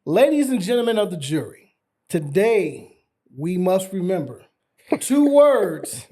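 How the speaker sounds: booming courtroom lawyer address; passionate closing argument. Pretend. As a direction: play the dramatic defense attorney. Mock lawyer addresses jury.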